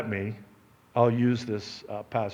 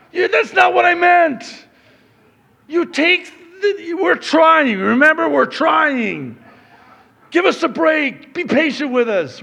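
pleading for patience; 12 semitones higher, 9 dB louder than usual. Real, not acted. Husbands begging wives for patience.

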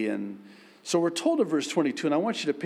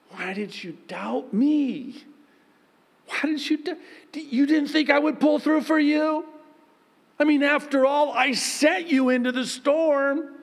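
much higher, loud teasing voice; playful Jesus; 13 semitones higher, 3 dB louder than usual. Retold or imitated. Jesus teasing Peter after the storm, high and playful. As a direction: tease him lovingly. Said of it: "I think it was a".

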